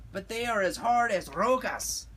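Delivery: high-pitched cartoon dog voice; Chihuahua doggies. A narrator's reading. Doggies complain to Skipito, high character voice.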